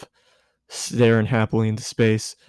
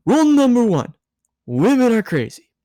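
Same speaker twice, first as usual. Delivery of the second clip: high, giddy tipsy woman, voice pitched up; tipsy Misato; 12 semitones higher, 5 dB louder than usual. A narrator's reading. Tipsy Misato lecturing Shinji, high and giddy. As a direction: play the tipsy guardian, loud and high.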